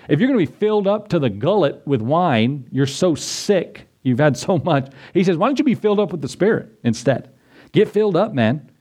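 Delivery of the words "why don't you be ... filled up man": eager urging. Acted. Preacher urges filled with Spirit.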